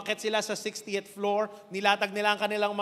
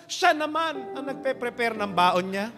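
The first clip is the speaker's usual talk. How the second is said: sobbing punchline; 3 semitones higher, 6 dB louder than usual. Acted. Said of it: "first take of punchline".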